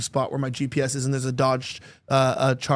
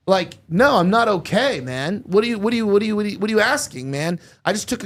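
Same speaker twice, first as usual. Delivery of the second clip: higher, louder exasperated reply; exasperated retelling; 4 semitones higher, 4 dB louder than usual. Retold or imitated. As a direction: act out his frantic comeback to the cop. Retold frantic reply to officer.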